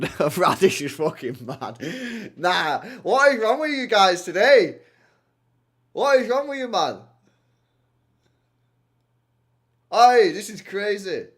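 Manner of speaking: slow, loud incredulous outburst; loud disbelief. Real, not acted. Streamer shouting at chat, slow and incredulous. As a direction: drag each word in disbelief.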